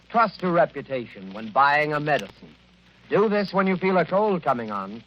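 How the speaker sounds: put-on brisk, upbeat old-time announcer pitch; radio ad read. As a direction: sell the tablets to the listeners at home.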